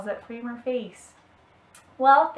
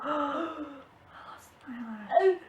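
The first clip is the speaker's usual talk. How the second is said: startled gasp, then whispered; 3 semitones higher, much slower than usual. Real, not acted. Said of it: "like I just did".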